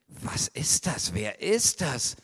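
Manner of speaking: puzzled whispered question. Acted. Maria whispers her surprise at the voice. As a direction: wonder aloud in a whisper.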